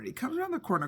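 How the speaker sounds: P=A; calmly. Shown as a demonstration.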